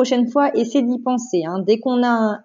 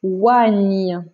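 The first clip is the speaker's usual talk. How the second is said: lower, drawn-out syllable; careful dictation; 4 semitones lower than usual. Shown as a demonstration. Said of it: "attention, écoute bien".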